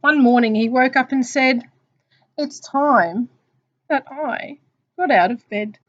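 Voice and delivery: measured, expressive picture-book reading; story narration. Acted. Teacher reading Mister Magee to children, story narration. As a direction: read it out for young children.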